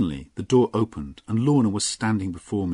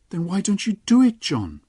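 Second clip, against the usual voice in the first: high, louder playful challenge; Lorna, teasing; 12 semitones higher, 6 dB louder than usual. Acted. Lorna laughing up at John, teasing high voice. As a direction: dare him to kiss her.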